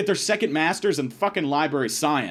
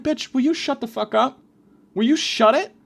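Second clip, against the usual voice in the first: high, raised-voice irritation; mad; 8 semitones higher, 3 dB louder than usual. Retold or imitated. Student to groaning classmate in class, retold anger. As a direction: snap at her, pitched up. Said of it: "I'm getting visibly mad".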